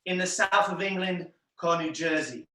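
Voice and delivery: slow put-on English accent; mock English accent. Magician delivering his show line, mock English accent. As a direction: claim English roots in a dubious English accent. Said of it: "In the show, I say".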